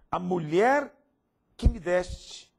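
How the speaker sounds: loud accusing cry of the woman; Adam's blame, loud. Retold or imitated. Adam answering God, blaming the woman, loud. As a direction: push it out loud, pointing blame. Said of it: "Ele disse".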